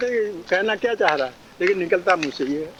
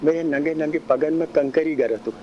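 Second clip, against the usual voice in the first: put-on little girl's plea; 3 semitones lower than usual. Shown as a demonstration. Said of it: "बोलने का ढंग".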